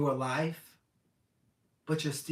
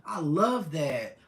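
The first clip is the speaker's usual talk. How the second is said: whisper; 4 semitones higher, 5 dB louder, much slower than usual. Real, not acted. Reacting to her own message.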